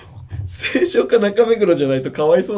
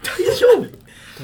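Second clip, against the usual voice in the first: incredulous; much slower than usual. Real, not acted. Disbelief at his claim.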